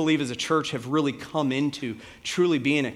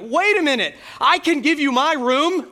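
high, loud imitated outcry; desperate acted shout, pitched way up; tearful scream; 11 semitones higher, 6 dB louder than usual. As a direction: cry out like an upset child. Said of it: "Wally scream out as he began to tear up and cry".

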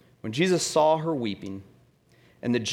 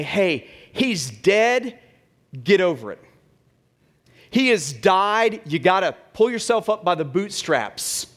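mock tough love; 3 semitones higher, 4 dB louder than usual. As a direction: order the mourners to toughen up, raised voice. Tough pep talk Jesus didn't give.

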